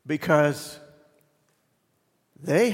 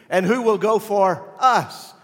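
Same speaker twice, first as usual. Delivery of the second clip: raised, louder call as God; booming voice of God; 6 semitones higher, 6 dB louder than usual. Acted. Preacher voicing God, loud and raised. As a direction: proclaim it as God calling out. God's voice quoted in sermon.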